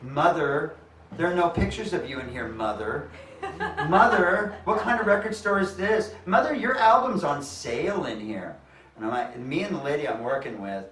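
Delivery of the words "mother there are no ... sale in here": high mock calling of Mother; imitating the guys. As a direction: sing out Mother over and over, mock adoring. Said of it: "they were all calling her Mother".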